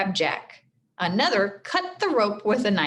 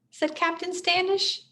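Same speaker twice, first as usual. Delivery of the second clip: stern captain; 10 semitones higher than usual. A narrator's reading.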